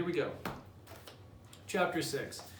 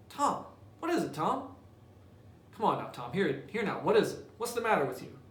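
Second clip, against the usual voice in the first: put-on much higher, anxious boy's voice; worried little brother; 4 semitones higher than usual. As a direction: pitch it up high and fret over him. Sid worried about groaning Tom.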